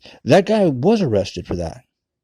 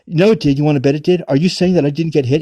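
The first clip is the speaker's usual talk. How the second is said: raised, louder mock-indignant comeback; indignant retort; 3 semitones higher, 4 dB louder than usual. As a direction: act out someone insisting, challenging the doubter. Acted argument in retold dispute.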